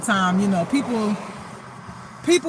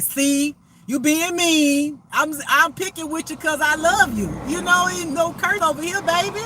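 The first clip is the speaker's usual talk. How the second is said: playful teasing; 6 semitones higher than usual. Retold or imitated. Teasing the reader, then soothing.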